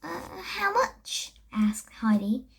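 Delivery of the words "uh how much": shy question. A narrator's reading. Heidi asks shyly.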